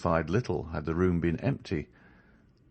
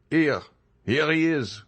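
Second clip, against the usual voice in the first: higher, louder calling out; cry from the landing; 8 semitones higher, 3 dB louder than usual. A narrator's reading. A pursuer on the landing shouts that he's found Andrea. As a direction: call the others from outside the door. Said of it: "cried a voice from the landing".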